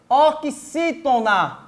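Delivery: "Oxítona" slowly, with each syllable distinct; slow sounding-out. Shown as a demonstration. Teacher repeats the new term slowly.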